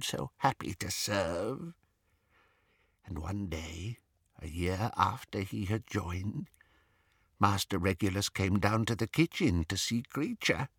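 soft, muffled, faltering recollection; rocking elf stalling before the painful part. A narrator's reading. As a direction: hesitate as the memory hurts. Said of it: "his voice was muffled".

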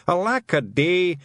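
high, drawn-out cry of woe; hammed-up wail; shouted lament. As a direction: cry it out slowly in despair. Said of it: "and shouting".

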